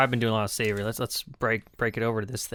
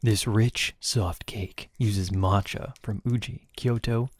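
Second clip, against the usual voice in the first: narrator voice; slower than usual. Pretend. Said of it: "Gotta get the narrator voice going".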